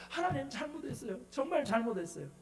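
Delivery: softened, mildly pleading apology; retold repentance. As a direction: plead quietly, imitating a penitent in prayer. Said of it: "회개하고 막 그러라고 굴르면서". (작은 소리로 회개하며 빌듯)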